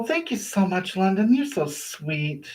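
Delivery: hushed, touched gratitude; tender thanks. Real, not acted. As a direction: melt a little as you thank them. Thanking a viewer for kindness.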